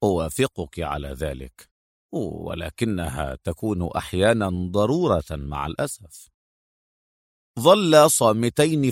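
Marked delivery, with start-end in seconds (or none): 0.0-6.3 low, soft, conceding male voice; deep, gentler officer; dryness softening. A narrator's reading. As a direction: ease off and agree with quiet regret. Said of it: "بدأ الجفاف الذي يملأ لهجته يذوب".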